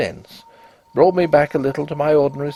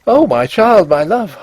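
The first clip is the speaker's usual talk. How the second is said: higher, louder cry of grief; anguished cry; 7 semitones higher, 6 dB louder than usual. A narrator's reading. Husband seeing his wife in the window, anguished higher cry.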